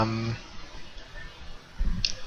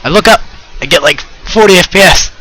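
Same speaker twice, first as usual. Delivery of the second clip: sudden burst of excitement, louder; thrilled about the frame rate; excited; 6 semitones higher, 6 dB louder, faster than usual. Real, not acted.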